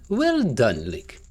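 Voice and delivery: measured, formal reward speech; lightly voiced game character. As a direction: lightly act a courteous old racer handing over a prize. Reads the game figure's dialogue.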